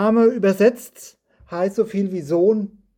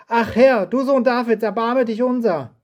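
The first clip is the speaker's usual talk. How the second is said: crying out; 4 semitones higher than usual. Acted. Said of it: "schrien sie".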